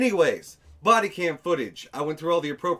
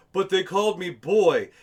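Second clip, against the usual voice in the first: mock whiny complainer; 3 semitones higher, 5 dB louder than usual. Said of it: "hyper animated to really sell it".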